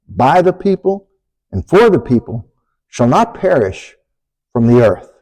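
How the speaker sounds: measured phrases with deliberate pauses; rhythmic speech recitation. Shown as a demonstration.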